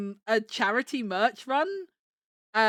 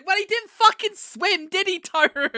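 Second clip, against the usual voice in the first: teasing laugh; 8 semitones higher, 7 dB louder than usual. Real, not acted. Teasing friend Toru.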